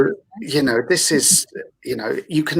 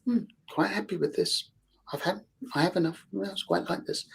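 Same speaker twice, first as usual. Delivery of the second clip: contented satisfaction; 6 semitones higher, 10 dB quieter than usual. Acted. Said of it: "Whereas like is satiated serotonin".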